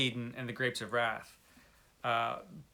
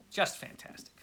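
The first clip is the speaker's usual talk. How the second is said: breathy reverent whisper; awed little whisper; whispered praise; 4 semitones higher, 6 dB quieter than usual. Real, not acted. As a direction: hush it like a secret treasure. Soft reverent praise of the novel.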